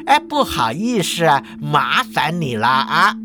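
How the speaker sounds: understated good-humoured apology; mild jovial politeness; chuckly, genial. Acted. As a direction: apologise amiably, slowing at the end. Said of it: "笑呵呵地说啊".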